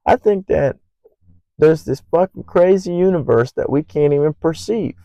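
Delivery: a hint of a wild-eyed psych ward rambler; ranting crazy person. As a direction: play a lightly voiced madman ranting to nobody. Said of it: "some crazy person at the psych ward".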